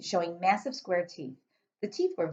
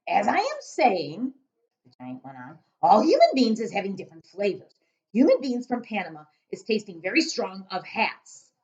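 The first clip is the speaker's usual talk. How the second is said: giant voice; 3 semitones higher, 5 dB louder than usual. Acted.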